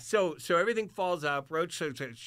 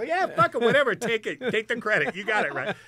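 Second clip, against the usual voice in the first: excited; 6 semitones higher, 8 dB louder than usual. Retold or imitated. Retells own breezy reply.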